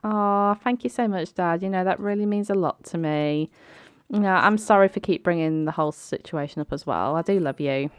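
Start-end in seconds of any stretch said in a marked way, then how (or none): 0.0-3.5 grateful daughter. Pretend. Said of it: "she's like".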